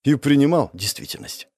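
plain reading voice

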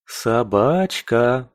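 put-on silly baby talk to a dog. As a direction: coo the word slowly. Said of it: "продолжал по-дурацки сюсюкать эльф".

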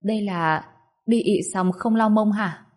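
puzzled. Acted. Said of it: "khó hiểu".

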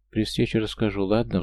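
ordinary delivery, nothing marked

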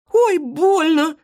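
very high, slow drawn-out ouch; a pained squeal stretched long. Acted. Marysya pricked by the hedgehog, slow high ouch. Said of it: "ойкнула она".

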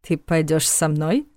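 slow, playful invitation; a light teasing ask. Acted. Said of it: "улыбаясь теперь искренне и вместе с тем немного игриво".

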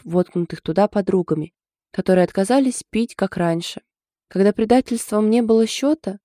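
mock-dramatic bylina recital; comically grand storyteller voice; epic saga telling. A narrator's reading. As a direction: ham it up like an ancient epic. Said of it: "начав своё драматическое повествование, словно рассказывая былину".

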